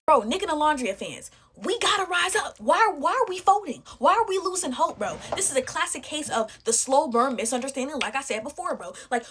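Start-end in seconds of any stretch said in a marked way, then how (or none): 0.0-5.2 high, fired-up call to the fans; rallying cry. Real, not acted. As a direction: rouse the fans not to give up.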